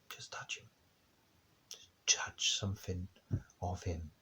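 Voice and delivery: whispered longing. Acted. Hushed longing repetition.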